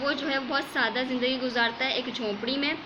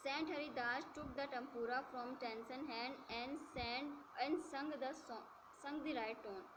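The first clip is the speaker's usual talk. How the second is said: slow, measured textbook reading; story read-aloud; 18 dB quieter, much slower than usual. A narrator's reading. Teacher reads English story to students, slow measured read-aloud. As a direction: read it out phrase by phrase.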